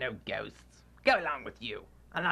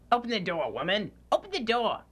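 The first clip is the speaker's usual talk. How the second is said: loud, higher, demanding bellow through the door; impatient shout; 9 semitones higher, 6 dB louder than usual. Acted. Scrooge shouting at his housekeeper through the door. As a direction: hammer the words out, order her to open up.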